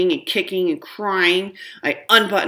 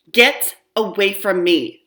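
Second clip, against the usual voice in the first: loud, slow shout of disgust; scream; 4 semitones higher, 7 dB louder, slower than usual. Acted. Violet yells at her gross little brother, loud and slow. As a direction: push him away with your voice. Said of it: "screams Violet".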